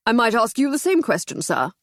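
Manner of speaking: a touch of pompous captain; lightly pompous, looking down at him; captain mildly pompous to the inspector. Acted. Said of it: "said Summers pompously".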